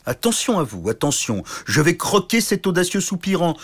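mock-menacing giant; threatening giant. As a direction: menace the little suitor.

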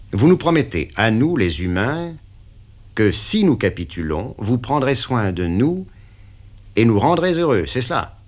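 the boss pinning down the deal; interrogating patron; stern boss. Acted. Patron questions.

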